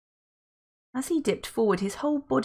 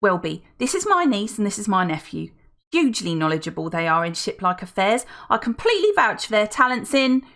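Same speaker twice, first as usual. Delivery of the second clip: put-on gushing older woman; 3 semitones higher, 4 dB louder than usual. Felicity vouches for the twins.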